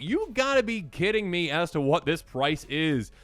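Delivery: slow, incredulous quote at the price; drawn-out you-gotta-be-kidding-me; mock disbelief. Past self reacting to a card price, slowed disbelief. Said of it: "I was like".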